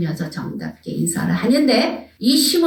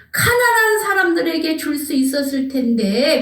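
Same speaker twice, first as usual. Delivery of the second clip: higher-pitched reproachful lament; acted reproach; 5 semitones higher than usual. Critics reproaching Mary about the poor, higher-pitched reproach. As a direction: voice a mild scolding complaint, pitched up. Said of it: "그러면서 책망을 하는 거예요".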